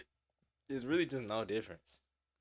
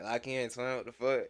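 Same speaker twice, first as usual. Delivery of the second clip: put-on Atlanta accent. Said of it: "with that Atlanta accent".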